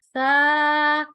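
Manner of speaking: सा short, one alif long; short letter demo. Shown as a demonstration. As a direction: clip सा short without whistle. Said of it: "सीटी की आवाज नहीं आनी चाहिए".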